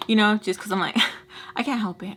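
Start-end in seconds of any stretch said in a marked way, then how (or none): 1.0-1.5 small voiceless fake cough; imitated cough. Storyteller coughing because she can't help it, small imitated cough. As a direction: let out a little mock cough. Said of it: "I kinda cough".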